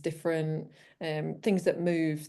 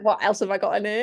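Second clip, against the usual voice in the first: laughing; 4 semitones higher, 7 dB louder, faster than usual. Retold or imitated. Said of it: "I'm like".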